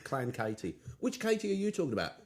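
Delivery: normal talking voice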